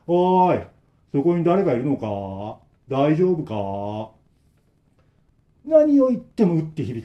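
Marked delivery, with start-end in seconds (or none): 0.1-4.1 slow, emotionless repeated call; expressionless repetition. Acted. Old man calls again to the trapped three, blank. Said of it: "無表情な声でずーっと同じ".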